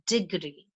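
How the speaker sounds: degree with the first syllable DE stressed. Shown as a demonstration. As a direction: put the weight on DE in degree. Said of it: "the stress is on D E".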